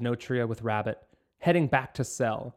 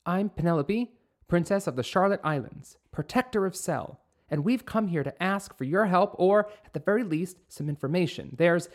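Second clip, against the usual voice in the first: put-on young princess voice; 5 semitones higher than usual. Penelope introduces herself formally.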